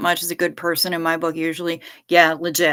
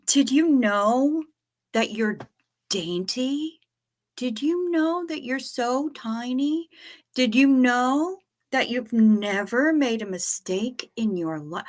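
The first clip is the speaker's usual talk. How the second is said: put-on high, slow cooing baby talk; baby talk to pet; 6 semitones higher than usual. Cooing to the little dog, high slow baby talk. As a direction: coo at her like a tiny puppy.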